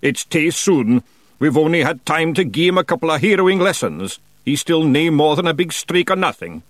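high, loud Scots Feegle shout; shouted protest. A narrator's reading. Big Yan objecting to the hero plan, high shouted Scots protest.

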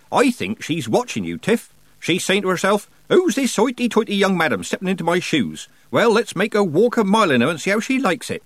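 high, lively Nanny voice, gleefully imitating a rival; Nanny Ogg, mischievous old witch. Nanny tells Tiffany what the Summer Lady is thinking, mischievous. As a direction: pitch it high, teasing and egging her on.

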